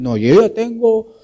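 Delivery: a lightly voiced teen girl insisting, loud at the start; hammed-up stubborn "I'm eighteen"; mock defiant daughter. Preacher mimics rebellious girls defying their parents, a touch loud and mocking. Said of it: "dicen algunas".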